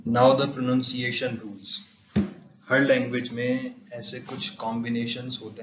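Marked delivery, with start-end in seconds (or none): 0.1-1.8 spoken very slowly; slow announcement. Shown as a demonstration. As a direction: announce the next topic, drawn out.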